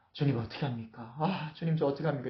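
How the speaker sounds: lightly acted anguished, sighing prayer; sighed lament. David silently praying during the troop review, sighed lament. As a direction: plead under your breath, mildly distressed. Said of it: "막 탄식하고 기도하면서".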